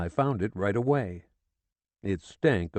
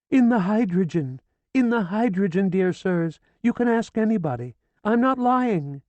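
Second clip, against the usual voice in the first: high, loud, feverish insistence; frantic swearing; 11 semitones higher, 5 dB louder than usual. A narrator's reading. Hysterical widow swearing to the police, frantic. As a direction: swear it with wild urgency.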